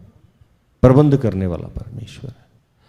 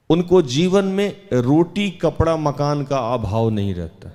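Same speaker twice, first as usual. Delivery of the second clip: raised, assertive preacher's voice; emphatic preaching; 3 semitones higher than usual. Real, not acted. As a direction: drive the promise home to the congregation.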